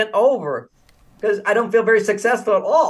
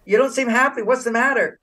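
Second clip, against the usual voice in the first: higher, caring question; concerned question; 4 semitones higher than usual. Retold or imitated. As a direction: ask her what is wrong, with care. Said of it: "And I said".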